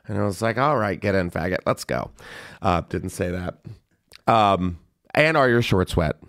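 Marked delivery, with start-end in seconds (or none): 0.6-2.1 mock gruff. Joking pretend offer of a lift.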